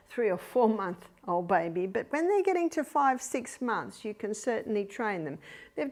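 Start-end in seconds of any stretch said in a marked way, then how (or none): none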